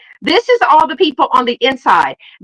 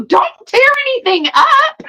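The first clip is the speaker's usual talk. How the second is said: laughing plea; 13 semitones higher than usual. Retold or imitated. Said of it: "I go".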